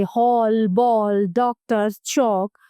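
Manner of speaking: हॉल, बॉल, डॉक्टर, चौक with an open aw vowel; vowel between aa and o. Shown as a demonstration. Teacher showing borrowed English sound, हॉल, बॉल, डॉक्टर, चौक with open aw. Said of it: "आ और ओ के बीच की ध्वनि".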